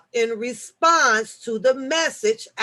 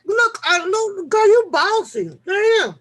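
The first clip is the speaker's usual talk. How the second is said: high, loud teasing complaint; loud playful protest; 9 semitones higher, 6 dB louder, slower than usual. Real, not acted. Teasing the bossy viewer, high and loud. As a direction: push back at her, half laughing.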